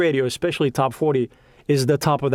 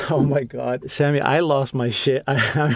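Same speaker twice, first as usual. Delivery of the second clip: laughing; slower than usual. Real, not acted. Laughing while recalling big break.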